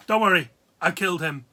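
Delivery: mock casual. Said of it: "She says it like that".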